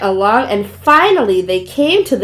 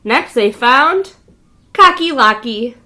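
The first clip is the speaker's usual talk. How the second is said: ordinary delivery, nothing marked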